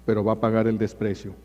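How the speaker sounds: normal talking voice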